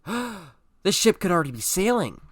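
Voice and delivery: high, loud, drawn-out mock squeal; hammed-up excited outburst; excited fangirling. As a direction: exclaim it with over-the-top fan glee. Acted fangirl outburst after gasp.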